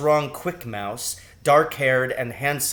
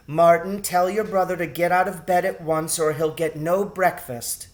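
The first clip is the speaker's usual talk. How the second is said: firm mother; 4 semitones higher than usual. A narrator's reading. Mother orders son.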